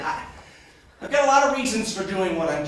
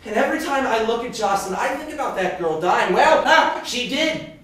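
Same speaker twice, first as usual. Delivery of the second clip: fast, high, loud confession; agitated outpouring; 6 semitones higher, 6 dB louder than usual. Acted. Confessing his lost love, agitated outpouring. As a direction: let it spill out in a rush.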